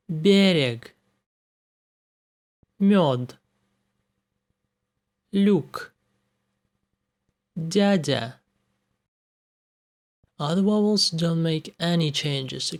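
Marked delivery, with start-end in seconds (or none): 0.1-8.3 Берег, Мёд, Люк, Дядя with the consonant softened before the vowel; soft consonants. Shown as a demonstration. Teacher demonstrates soft consonants before vowels. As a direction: model the softened consonants clearly. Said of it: "make them soft".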